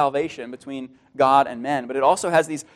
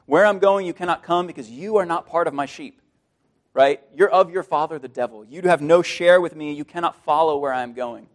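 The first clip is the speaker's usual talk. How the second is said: stern judgment. Acted. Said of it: "a very different message".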